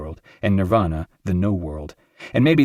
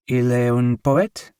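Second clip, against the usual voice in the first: doubting landlady; 4 semitones higher, slower than usual. A narrator's reading. Landlady questions in French.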